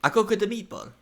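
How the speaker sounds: high-pitched mock-Swedish silliness; fake Swedish accent. Guesser repeating the gag to the host, fake Swedish accent. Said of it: "That's not a Swedish accent".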